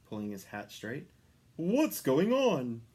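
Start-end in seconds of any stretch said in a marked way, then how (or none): 1.6-2.8 high, slow startled cry; cried out. A narrator's reading. Santa crying out at the sudden jolt. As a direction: call out in alarm. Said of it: "cried Santa".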